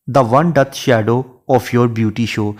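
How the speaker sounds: slow, measured reading of a verse line; poetry recitation. Shown as a demonstration. Teacher reciting a Shakespeare sonnet line to students, slow and measured. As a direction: read each word of the sonnet out slowly.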